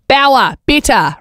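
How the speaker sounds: drawn-out call. Acted.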